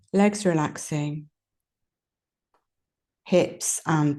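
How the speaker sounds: calm guided relaxation with long pauses; unhurried yoga nidra voice, leaving space between phrases; guided meditation. Real, not acted. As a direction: lead them gently through relaxing, phrase by phrase. Leads a body relaxation.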